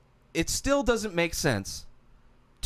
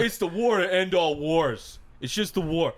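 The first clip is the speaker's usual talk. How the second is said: mock British accent. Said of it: "Oh, no, he wasn't British".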